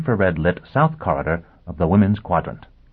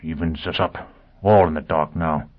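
gasping; 3 semitones lower than usual. Acted. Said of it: "Foyle gasped".

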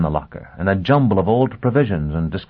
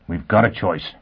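out of breath. Acted. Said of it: "he panted".

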